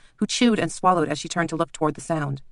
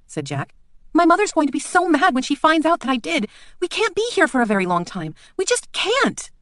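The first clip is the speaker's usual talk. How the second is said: much higher and louder, protesting; a scared child insisting on going home; frightened girl; 13 semitones higher, 5 dB louder than usual. Acted. Jack protests to the two men, panicking.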